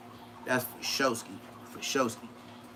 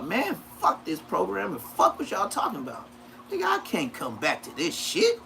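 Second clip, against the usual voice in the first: choked-up outburst; 2 semitones higher, 3 dB quieter than usual. Retold or imitated. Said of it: "I said in front of y'all".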